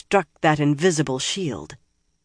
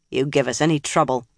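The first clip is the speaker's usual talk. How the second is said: hard voice; faster than usual. Acted. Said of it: "said in a hard voice".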